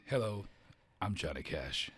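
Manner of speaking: a hint of low country-singer greeting; low-pitched celebrity hello; a famous country singer. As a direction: lightly imitate his deep stage introduction. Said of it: "I was thinking, like".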